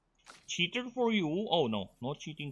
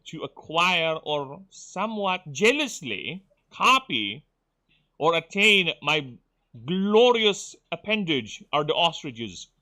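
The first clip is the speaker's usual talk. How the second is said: louder, grand and self-important proclamation; pompous bird god; 4 semitones higher, 5 dB louder than usual. Pretend. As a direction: declaim like a vain deity of birds. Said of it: "with the accent of a sophisticated god Burb".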